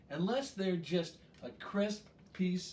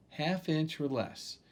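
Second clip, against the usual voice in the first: half inch or less said slowly, word by word; slow repeat; slower than usual. Shown as a demonstration. Chef repeats the slicing size for viewers, slowly. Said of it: "a half inch or less".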